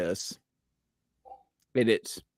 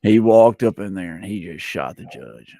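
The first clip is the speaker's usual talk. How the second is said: put-on country accent; 3 semitones lower than usual. Shown as a demonstration. Repeating the sheriff story to shocked friends, country accent. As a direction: retell it like a country local. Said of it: "let me do my country accent".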